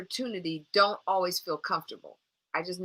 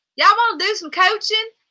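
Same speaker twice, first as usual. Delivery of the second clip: very high, very loud put-on Alabama accent; 13 semitones higher, 11 dB louder than usual. Asking viewers who wants coaching: put-on alabama accent. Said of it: "Not everybody in Alabama talks like this".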